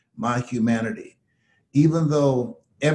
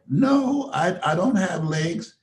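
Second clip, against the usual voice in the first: higher, lightly voiced teasing declaration; playful mock defiance; 4 semitones higher than usual. Les teasing the host, voicing him, mock defiant. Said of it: "You decided".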